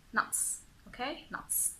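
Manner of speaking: NUTS soft, ending in a crisp TS; clear final TS. Shown as a demonstration. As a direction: let the TS in NUTS sound clearly. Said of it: "we know how to pronounce ts".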